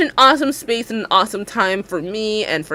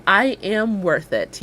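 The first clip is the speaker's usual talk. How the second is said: slow affirmation; slower than usual. Shown as a demonstration. Leads viewers in spoken affirmation.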